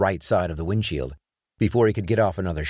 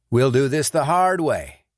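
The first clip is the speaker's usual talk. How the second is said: loud, higher, hard threat; menacing threat; 6 semitones higher, 5 dB louder than usual. Acted. Sean threatening the silent gunman before striking, loud and hard. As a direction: promise him pain.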